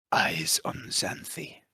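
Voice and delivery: slow, hushed conspiratorial whisper. Acted. Player warning Nixios about Xanthi in passing, whispered. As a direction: whisper it slowly, like a secret warning. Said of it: "I'm just gonna whisper to him".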